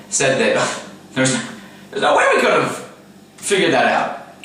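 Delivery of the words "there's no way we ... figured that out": mocking. Mocking Barak's excuse.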